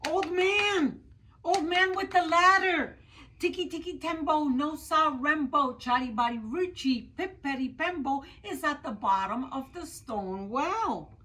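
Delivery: high, loud, desperate shout. Acted. Out of breath, Chang shouts to the old man with everything he has left. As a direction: yell with his very last breath. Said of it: "he shouted".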